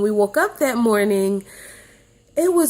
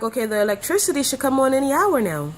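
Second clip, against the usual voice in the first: hopeful inner voice; 6 semitones higher, faster than usual. Retold or imitated. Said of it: "I was thinking".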